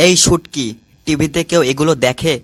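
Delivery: loud call across the house. Acted. Husband calls loudly to Shutki to put on DJ songs, loud call. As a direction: raise the voice to reach Shutki.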